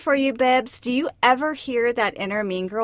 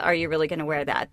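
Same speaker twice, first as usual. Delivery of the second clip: sneering fake sweet; 6 semitones lower, faster than usual. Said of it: "Okay, maybe the".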